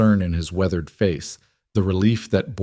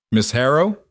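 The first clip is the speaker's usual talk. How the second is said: higher, rising questioning call; a touch of tight worry, pitched up; worried call; 5 semitones higher than usual. A narrator's reading. Man on the porch to returning Miss Harrow, worried call. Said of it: "his voice tight with worry".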